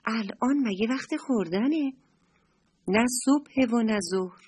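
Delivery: a touch of puzzled asking; lightly voiced surprise; mildly surprised. The mother asking her hungry child, mildly surprised. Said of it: "با تعجب پرسید".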